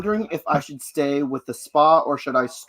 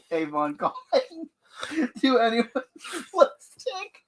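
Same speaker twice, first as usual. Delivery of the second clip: Avon lady; 9 semitones higher than usual. Retold or imitated. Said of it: "sounds like Avon".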